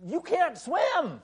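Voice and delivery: high slow shouted warning; a loud, drawn-out mock warning yell. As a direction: shout it across the water. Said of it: "yells at him".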